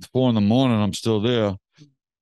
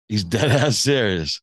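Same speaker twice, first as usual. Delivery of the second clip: repeating it through a laugh. Real, not acted. To the listener about the coin toss, laughing. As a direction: laugh as you say it again.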